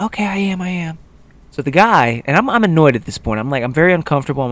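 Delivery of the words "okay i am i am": high, softer mock-girl voice; drunk woman. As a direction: imitate a tipsy girl brushing off a scolding. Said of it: "So she's like".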